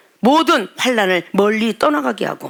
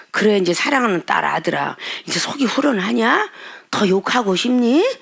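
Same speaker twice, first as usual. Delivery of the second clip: gentle God voice. Retold or imitated. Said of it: "하나님 뭐라고 응답하겠어요".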